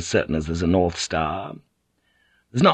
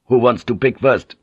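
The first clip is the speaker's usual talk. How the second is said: raised, pushy voice; loud demand; 2 semitones higher, 6 dB louder than usual. Acted. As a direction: call it out to the room. Tense captive bosses others.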